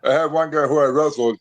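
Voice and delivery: talking with food in mouth; mouth full. Real, not acted. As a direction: speak around a mouthful of food. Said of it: "I got a little food in my mouth".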